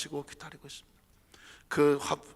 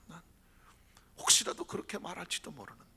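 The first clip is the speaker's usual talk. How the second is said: ordinary talk, nothing marked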